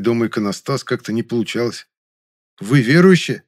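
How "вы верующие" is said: surprised question. Acted. Narrator asks surprised question.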